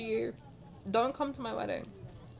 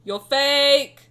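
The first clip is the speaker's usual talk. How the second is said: louder, higher playful jab; mock accusation; 3 semitones higher, 10 dB louder than usual. Telling drunk Silas in the corner he's fake, loud teasing. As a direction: fling it at him like a teasing accusation. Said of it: "I'm like".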